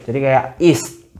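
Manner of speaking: is with the T barely cut off; clipped t. Shown as a demonstration. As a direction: sound is with a clipped T at the end. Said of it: "T-nya ini cuma kayak sepenggal".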